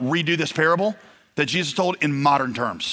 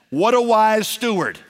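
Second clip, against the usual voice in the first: admiring exclamation; 6 semitones higher, 4 dB louder, slower than usual. Acted. Jesus praising the steward.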